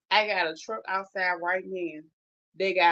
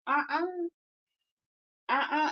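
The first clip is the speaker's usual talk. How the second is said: alarmed refusal; 7 semitones higher than usual. Retold or imitated. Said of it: "I was like".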